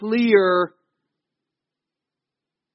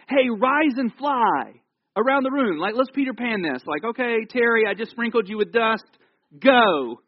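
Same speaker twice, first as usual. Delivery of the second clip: mock playful command; 4 semitones higher than usual. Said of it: "it'd be like me saying to you".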